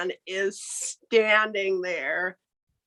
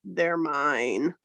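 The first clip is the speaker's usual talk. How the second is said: mysterious voice; 5 semitones lower than usual. Acted. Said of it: "he hears another voice".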